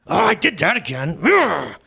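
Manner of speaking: acted exasperated groan at oneself; frustrated self-scolding, played up; mock self-reproach. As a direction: growl in mock frustration at your own slip. Acts out being mad at himself.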